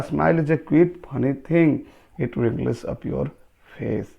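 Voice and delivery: slow, drawn-out poem reading; poem recitation. Acted. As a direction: read the verse out very slowly, word by word. Reads the poem aloud, slowly. (कविता का धीमा, ठहर-ठहर कर पाठ)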